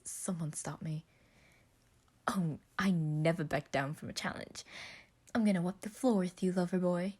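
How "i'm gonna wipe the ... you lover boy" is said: taunting. Acted. Trash talk to Roman.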